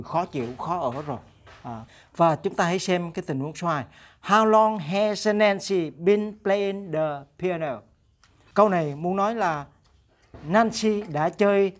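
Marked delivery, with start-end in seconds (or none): 4.2-7.8 very slow, clear English; slow model question. Shown as a demonstration. Teacher reads the Nancy question slowly to the class. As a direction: read it out slowly for learners. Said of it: "teacher reads example question".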